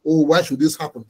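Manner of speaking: low, dismayed groan of regret; imitating a man in despair, voice dropped low; despairing lament. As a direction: sink the voice low in dismay, as if head against the wall. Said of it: "he's putting his head on the wall and saying".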